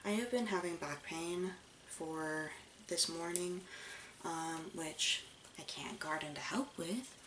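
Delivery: leaning back from the mic; far from mic. Real, not acted. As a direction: voice distant from mic. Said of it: "I know I'm, like, far back".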